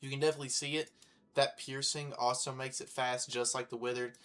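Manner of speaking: real lisp from a mouth sore; lisping on the s sounds. Real, not acted. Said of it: "excuse my lisp".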